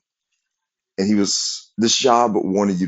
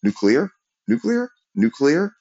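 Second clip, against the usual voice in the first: rising pitch; 13 semitones higher than usual. Shown as a demonstration. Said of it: "go nuclear".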